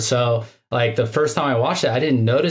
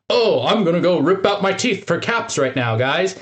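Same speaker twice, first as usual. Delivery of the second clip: mock announcement, slightly higher; 4 semitones higher than usual. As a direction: declare it like an obvious plan. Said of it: "he's not saying out loud".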